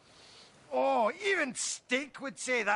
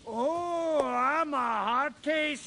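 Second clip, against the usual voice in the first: mock English colonel; 3 semitones higher, much slower than usual. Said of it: "Mister English Colonel telling me".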